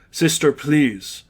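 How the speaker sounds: slow, steady priest calming a weeping nun; unhurried and gentle with an edge of firmness; calm but firm. Acted. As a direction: soothe her, then set a firm line. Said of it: "Father Nils' voice was calm, but firmness followed".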